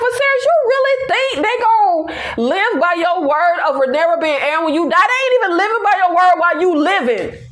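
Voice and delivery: high, fast, laughing reproach; exasperated scolding. Retold or imitated. Telling Viserys nobody obeys him, high exasperated scolding. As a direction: chide the weak king in disbelief. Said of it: "this is why I'm saying, like".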